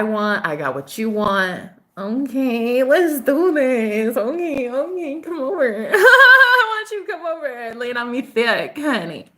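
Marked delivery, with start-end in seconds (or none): 2.0-9.3 higher, playful seductive tease; flirty come-on. Pretend. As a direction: lure him in, hamming it up.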